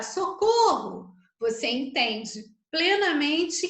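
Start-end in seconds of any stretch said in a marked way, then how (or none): 0.0-1.1 demo shout. Shown as a demonstration. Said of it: "se eu chegar pra você e gritar".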